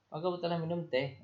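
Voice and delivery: quick high-pitched motherly question; mother asking. Acted. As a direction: ask it brightly as the mum would. Mother asks daughter.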